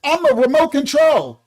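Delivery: lightly mocking whiny kid voice; a hint of a sing-song kid claiming to be animals. Mocking entitled kids, a light whiny mimic. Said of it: "the kids can say".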